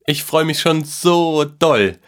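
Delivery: put-on high, drawn-out boyish delight; excited. A narrator's reading. Boy can hardly wait for Christmas, high and excited. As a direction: squeal it slowly, thrilled. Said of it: "ballte vor Aufregung seine Hände".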